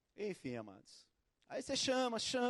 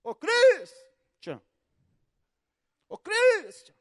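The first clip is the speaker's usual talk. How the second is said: loud drawn-out call, higher; 11 semitones higher, 14 dB louder, much slower than usual. Retold or imitated. Boy calling Christian at his door, loud drawn call. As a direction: stretch the name out to the house. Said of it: "Eu chego na porta".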